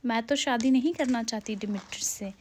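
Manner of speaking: whispered secret, unvoiced and soft. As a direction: breathe it like a confided secret. Hermia confides her secret plan.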